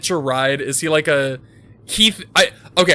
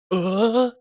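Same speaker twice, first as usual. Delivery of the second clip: short, higher-pitched startled uh; a startled game-hero reaction; surprised protagonist; 6 semitones higher than usual. Acted. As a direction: caught off guard, pitched up. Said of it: "surprised protagonist voice".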